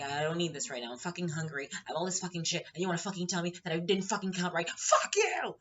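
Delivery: irritated rant building to a furious yell; exasperated outburst, peaking loud and high at the end; freaking out. Retold or imitated. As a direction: build from fed-up venting to an explosive high shout. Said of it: "freak the fuck out".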